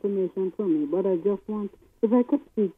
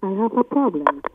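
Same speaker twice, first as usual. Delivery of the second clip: repeated louder for a bad line; louder, spelling it out to be heard; to someone hard of hearing; 5 dB louder than usual. Real, not acted. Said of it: "I'm not hearing you".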